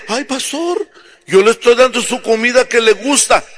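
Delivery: high whiny mother excusing herself; pleading mother. Acted. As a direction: whine it to the pastor, pitch up.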